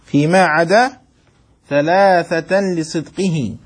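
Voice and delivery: يملي البيت ببطء كلمة كلمة; أملِ على الطلاب بتأنٍّ ليكتبوا; إملاء بطيء. Shown as a demonstration. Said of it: "أملي عليكم؟". (إملاء بطيء متأنٍّ للطلاب)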